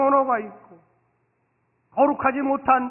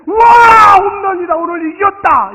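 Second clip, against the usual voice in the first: high, loud stadium cheer; cheering fan; 9 semitones higher, 17 dB louder, slower than usual. Pretend. Fan cheering a home run, excited shouting. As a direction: yell like your team just won. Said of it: "홈런을 쳤을 때".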